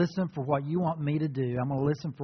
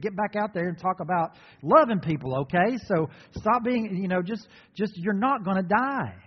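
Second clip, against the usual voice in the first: higher, eager, persuading tone, talking him out of it; Peter rebuking Jesus; 5 semitones higher, 3 dB louder than usual. Retold or imitated. Peter rebuking Jesus, higher and eager. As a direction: coax him like a pushy friend who knows better.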